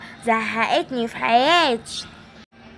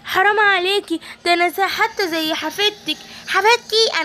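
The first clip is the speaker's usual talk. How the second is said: put-on pleading little girl; 5 semitones higher than usual. Captive girl begging the evil granny, high and pleading. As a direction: beg for mercy like a small girl.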